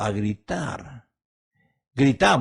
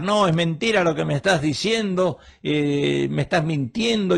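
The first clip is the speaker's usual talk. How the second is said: mock accusing shout; 3 semitones higher than usual. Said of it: "uno puede gritar".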